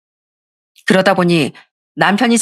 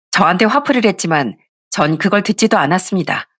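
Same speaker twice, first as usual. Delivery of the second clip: plain reading voice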